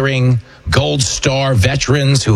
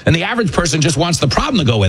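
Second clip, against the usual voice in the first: normal talking voice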